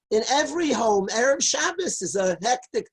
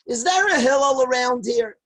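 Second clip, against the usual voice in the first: screaming in the street; 3 dB louder than usual. Retold or imitated. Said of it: "he's screaming in the street".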